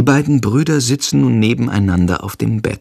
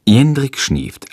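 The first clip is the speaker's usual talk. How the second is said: ordinary delivery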